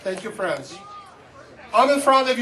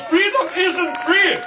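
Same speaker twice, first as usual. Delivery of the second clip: higher, impassioned slogan shout; rousing rally cry; 6 semitones higher, slower than usual. Real, not acted. Speaker honors people who died for this nation, rousing rally cry. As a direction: cry it out to stir the crowd. Climax of rally speech point.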